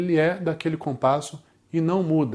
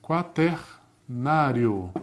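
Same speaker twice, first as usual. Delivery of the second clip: drawn out slowly; 3 semitones lower, much slower than usual. Shown as a demonstration. Teacher spelling out meter names.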